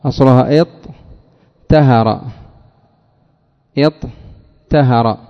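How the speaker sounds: اطهر drawn out very slowly, doubled ط; very slow demo word. Shown as a demonstration. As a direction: stretch اطهر with a long geminate ط. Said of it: "الطاء".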